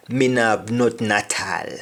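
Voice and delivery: patois Me no have, repeated; patois again; Jamaican patois. Shown as a demonstration. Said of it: "I don't have anything at all".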